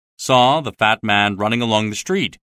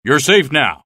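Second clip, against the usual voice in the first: reassuring; 4 semitones higher, 5 dB louder than usual. Acted. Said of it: "assured the American".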